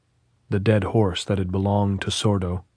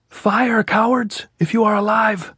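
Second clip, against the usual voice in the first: high, loud, defiant yell; officer daring the hidden enemy, yelling; taunting shout; 13 semitones higher, 4 dB louder than usual. A narrator's reading. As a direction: dare them to fire, full voice. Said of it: "he shouted".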